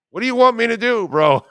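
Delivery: loud, high, fed-up protest; mock-indignant what do you want from me; exasperated outburst. Real, not acted. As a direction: throw up your hands and shout it. Defending his speeding, exasperated.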